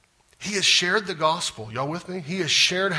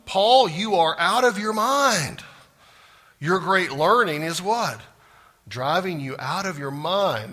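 loud voice; 3 semitones higher, 4 dB louder than usual. Retold or imitated. Preacher quoting Festus to the congregation, loud and slow. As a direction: proclaim it like an exasperated governor. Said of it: "he says in a loud voice".

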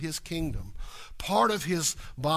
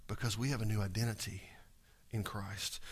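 lower, soft whisper; 8 semitones lower, 10 dB quieter than usual. Real, not acted. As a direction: hush it like a secret. Preacher drops to a whisper.

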